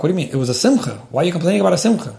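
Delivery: quick, incredulous questioning; brushing off his complaint in disbelief; puzzled objection. Retold or imitated. Someone dismissing a venting husband, puzzled incredulity. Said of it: "some people get stuck".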